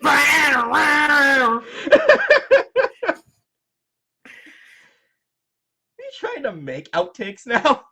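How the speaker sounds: laughing through the words; can't stop laughing. Real, not acted. Laughing at partner's antics.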